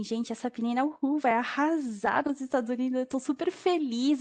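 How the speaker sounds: excited. Retold or imitated. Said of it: "eu tava super empolgada".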